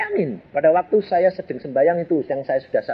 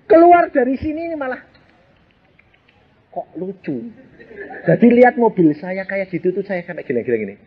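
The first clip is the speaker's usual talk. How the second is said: laughing while telling; 4 semitones higher than usual. Real, not acted. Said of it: "Sama ketawa".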